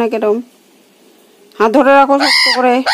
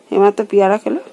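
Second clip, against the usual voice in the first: normal talking voice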